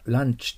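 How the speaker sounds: ランチ with a short Japanese "a"; quick ランチ like the midday meal; heard as lunch. Shown as a demonstration. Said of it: "これがランチと聞こえて".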